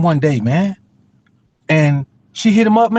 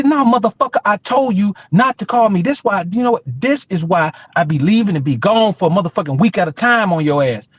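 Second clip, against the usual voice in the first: put-on scolding girlfriend; 3 semitones higher than usual.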